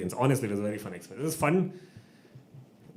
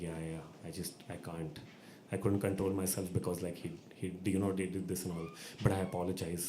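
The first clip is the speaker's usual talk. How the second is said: low, very soft imitation of a sheepish official; baritone excuse; 5 semitones lower, 7 dB quieter than usual. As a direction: imitate a deep, hushed, halting excuse. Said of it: "he gets his baritone voice out".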